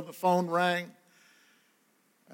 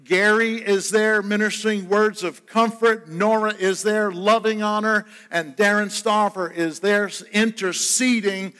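fuller, louder preaching drive that builds to an Amen; 3 semitones higher, 3 dB louder than usual. Acted. Preaching to the congregation.

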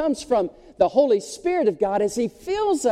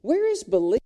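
incredulous; 9 semitones higher than usual. Retold or imitated. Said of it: "And I'm like".

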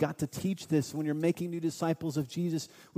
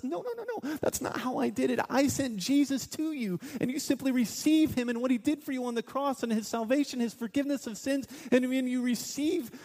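voice of God; 8 semitones higher than usual. Acted. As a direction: speak as God, gently correcting. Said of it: "And God says".

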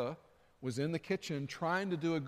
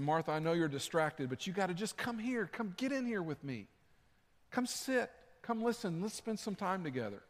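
Jesus inviting; 3 semitones higher than usual. Acted. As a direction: invite her in tenderly, as Jesus. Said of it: "And he's saying".

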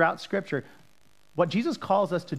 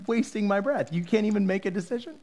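frustrated; 4 semitones higher than usual. Retold or imitated. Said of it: "He was so frustrated".

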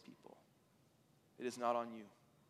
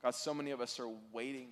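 closing prayer; 2 semitones lower than usual. Real, not acted. Preacher praying to God for the congregation, hushed closing prayer.

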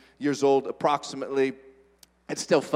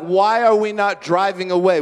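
retold panic, somewhat louder; mildly frantic, raised retelling of alarm; freaking out; 3 semitones higher, 6 dB louder than usual. Preacher retells asking in the Jeep why nobody drives off, mildly panicked. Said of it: "I was freaking out".

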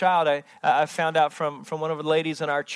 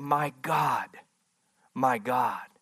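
softer, lower, a hushed lament; quiet anguish; 4 semitones lower, 3 dB quieter, slower than usual. Acted. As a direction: breathe it out like a forsaken son. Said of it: "He's saying".

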